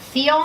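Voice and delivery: loud, single syllable "Ción" for students to echo; drilling syllables. Shown as a demonstration. Coach models the last syllable for the class to repeat, drilling syllables. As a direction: model "Ción" as one clear, full-voiced syllable. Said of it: "¿Cómo lo digo?".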